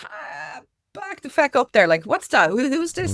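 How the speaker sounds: hammed-up who-is-this; mock outrage. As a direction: play the shocked listener, half joking. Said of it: "people are gonna be like".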